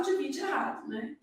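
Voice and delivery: ordinary talk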